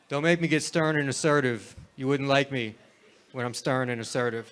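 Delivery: lightly voiced tamed monster, restrained and even; a mild, subdued take on a rage monster; Incredible Hulk impression. Comic plays a hero after anger management therapy, understated impression. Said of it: "my impression of the Incredible Hulk".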